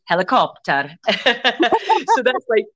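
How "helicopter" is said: "helicopter" pronounced with a Gaelic lilt; Gaelic-style accent. Shown as a demonstration. Teacher jokes about borrowed words, Gaelic-accented "helicopter". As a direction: make "helicopter" sound Gaelic. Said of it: "you sort of say it like that".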